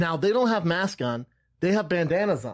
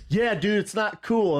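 lightly voiced, higher-pitched objection; retold boyfriend; 8 semitones higher, slower than usual. Boyfriend backing her up on the trail, mildly scolding.

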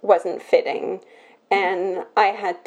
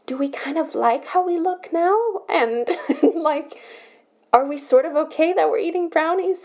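higher, gently questioning inner voice; quiet inner voice; 7 semitones higher than usual. Retold or imitated. Her inner adult voice quietly questioning her, higher and gentle. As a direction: let the small adult voice ask softly. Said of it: "had a very quiet voice".

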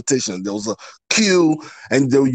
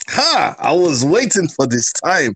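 video game character; 3 semitones higher than usual. Acted. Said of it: "you sound like a video game character right now".

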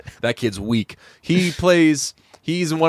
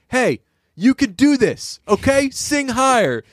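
coaxing producer; 11 semitones higher, slower than usual. Retold or imitated. Producer coaxing singer higher.

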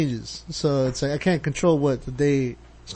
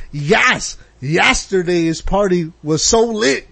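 slow, drawled "yesterday's party was so lit"; person two; much slower than usual. Acted. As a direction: lean on "so" like a hyped partygoer. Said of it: "Person two".

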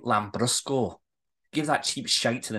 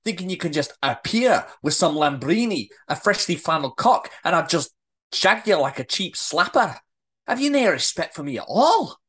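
mounting affronted tirade; scolding, with growing indignation; indignant rant. Acted. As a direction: build the rant towards an outraged question. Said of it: "too deep in her rant".

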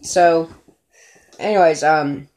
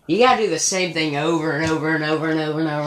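very fast run-on list; rapid-fire; much faster than usual. Real, not acted. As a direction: rattle it off fast. Listing repetition fast.

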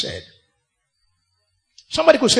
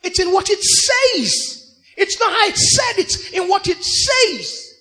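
emphatic preaching; 8 semitones higher, 3 dB louder than usual. Acted. Preaching at full force.

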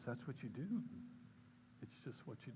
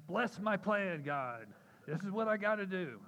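insistent prayer; 6 semitones higher, 6 dB louder than usual. Retold or imitated. Retold demanding prayer to God.

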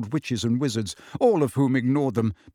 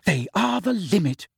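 higher-pitched, grim disapproval; 6 semitones higher than usual. A narrator's reading. Hermione disapproving of the twins' sign, grim. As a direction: say it grimly, pitch raised. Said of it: "said Hermione grimly".

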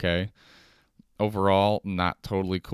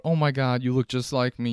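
mildly hammed-up amazement, pitched higher; mock freaking out; 5 semitones higher, 3 dB louder than usual. Person meeting their doppelganger, freaking out a little. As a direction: gush in a raised voice. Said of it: "freaking out".

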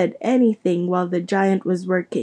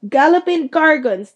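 surprised exclamation; 7 semitones higher, 5 dB louder than usual. A narrator's reading. Hagrid's sudden exclamation.

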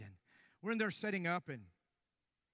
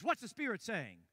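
challenging tone; 5 semitones higher, 4 dB louder than usual. Retold or imitated. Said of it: "Like, it was in that tone".

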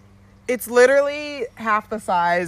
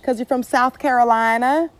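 put-on playful Southern accent, a bit louder; 5 semitones higher, 3 dB louder than usual. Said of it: "do you talk like this?".

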